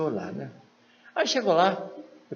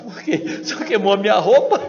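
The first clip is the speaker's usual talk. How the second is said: laughing; 4 semitones higher, 8 dB louder than usual. Real, not acted. Laughing while retelling the old man's reply.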